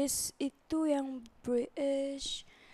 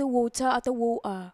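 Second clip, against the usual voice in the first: British "water" with a t, then "woa" with a dropped t; British accent; slower than usual. Shown as a demonstration. Teacher showing British variants of one word. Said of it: "aku kasih contoh satu kata".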